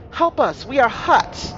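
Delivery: high, acted cry for help; calling for help. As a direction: call out high across the distance. Voices a cry from no man's land.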